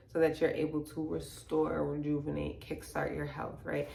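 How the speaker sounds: calm, softened guided check-in; real calm. Real, not acted. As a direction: settle down and guide gently inward. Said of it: "now we in a real calm space".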